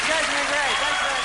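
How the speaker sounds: a hint of the silly voice; lightly voiced goofy thanks; lightly put-on voice. Comic thanks crowd in character.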